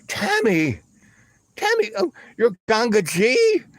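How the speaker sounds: high, incredulous questioning; retold astonishment, pitch leaping up; acted disbelief. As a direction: say it as the penny drops. Acted disbelief at who guru is.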